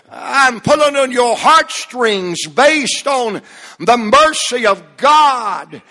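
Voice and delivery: measured, weighty phrases swelling to a shout; stretched key words, rising intensity to the final cry; full-force preaching. Real, not acted. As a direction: drive each phrase home like a pulpit climax.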